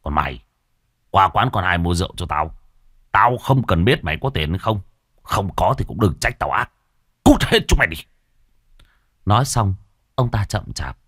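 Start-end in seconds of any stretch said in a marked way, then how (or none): 0.0-8.0 stern orders ending in a shout; scold, then explode on the dismissal; angry scolding. Acted. Husband orders wife out for rum, angry scolding. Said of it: "Đoạn lại mắng vợ".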